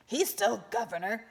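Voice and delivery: insisting. A narrator's reading. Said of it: "the first insisted".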